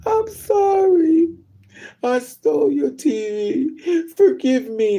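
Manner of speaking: high, loud, drawn-out tearful wail; mock crying. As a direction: wail a hammed-up tearful apology. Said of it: "start crying".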